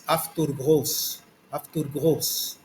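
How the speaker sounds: "afturgos" said slowly, with the sound af at the start; afturgos in Greek. Shown as a demonstration. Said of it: "vai ter o som afturgos". ("afturgos" com som de af, devagar)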